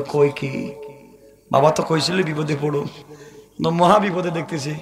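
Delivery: low, hushed, hurried worry; subdued dismay. Acted. Preacher acts the doomed groom taking in the news, subdued dismay. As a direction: drop into a quiet, quick murmur of dread. Groom learns he will die.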